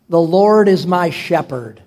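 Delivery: slow, reverent psalm reading; measured phrases with pauses between. Real, not acted. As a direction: lead a congregation reading slowly. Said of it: "Let's read it slowly".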